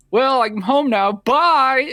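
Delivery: high, loud, chirpy brush-off; hammed-up careless goodbye; breezy mock dismissal. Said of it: "the kid's like".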